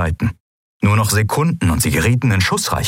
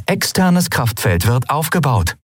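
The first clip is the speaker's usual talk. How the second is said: ship computer; 6 semitones higher than usual. Acted. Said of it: "vermeldete das Schiff".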